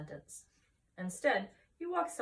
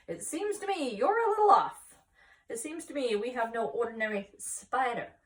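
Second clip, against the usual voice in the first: high, loud teasing rebuttal; wife doubting her husband, high and sharp; skeptical retort; 5 semitones higher, 7 dB louder than usual. Acted. Wife correcting her husband, high and loud.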